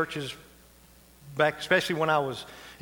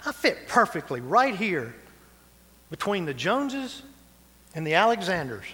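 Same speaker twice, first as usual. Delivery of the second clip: delighted discovery; 3 semitones higher than usual. Retold or imitated. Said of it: "you're gonna go".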